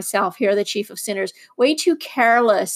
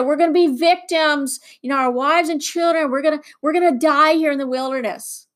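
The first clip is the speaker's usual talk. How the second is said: higher-pitched, mildly whining retelling; mock complaining; 4 semitones higher than usual. Israelites lamenting their fate in the desert, mildly whining. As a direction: imitate complainers in a raised pitch. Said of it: "they complained, they whined, they grumbled".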